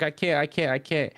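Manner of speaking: lightly acted frantic refusal; imitated meltdown. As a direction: replay the helpless protest lightly. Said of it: "he started crashing".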